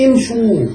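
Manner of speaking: امشوا said "imshuu"; opening kasra. Shown as a demonstration. Teacher giving the plural imperative, امشوا begun with "i". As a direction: keep an "i" at the start of امشوا. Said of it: "فيبقى الألف مكسورة في الأول".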